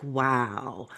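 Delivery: stunned wow. Retold or imitated. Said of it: "I was just like".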